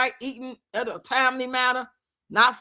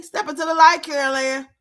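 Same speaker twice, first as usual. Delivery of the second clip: louder call, urging them toward the light; 4 dB louder than usual. Pretend. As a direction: call out like a medium guiding a spirit. Calling like the medium.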